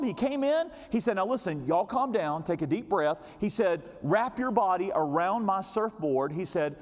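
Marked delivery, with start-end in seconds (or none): 1.2-3.2 a hint of a steady, soothing rescuer; calm surfer. Surfer calming the panicked father and daughter, lightly soothing. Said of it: "He just so calm". 4.0-6.3 slow, steady reassurance; calm instruction. Retold or imitated. Surfer telling them to hold the board, slow and calm. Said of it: "He just so calm".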